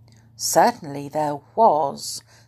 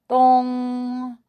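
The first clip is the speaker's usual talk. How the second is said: high, loud, held single bell note; doleful clock chime; 7 semitones higher, 5 dB louder than usual. A narrator's reading. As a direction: toll it as one long mournful dong. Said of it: "said the clock dolefully".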